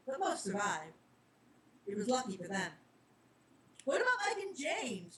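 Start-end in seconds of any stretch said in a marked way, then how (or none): 3.8-5.2 higher, urgent worried question; anxious kid asking after friends; frantic. Acted. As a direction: blurt it out in a panic. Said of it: "Charlie asked frantically".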